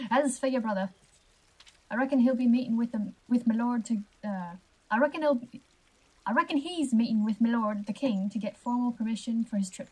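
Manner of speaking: lightly voiced watchman with put-on accent; a hint of an accented guard; guard character. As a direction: report like a helpful palace guard.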